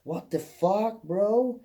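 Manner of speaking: high, stretched-out mock amazement; exaggerated high-pitched impression of a friend; Lucas. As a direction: imitate an astonished German guy, dragging the words. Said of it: "And he's like".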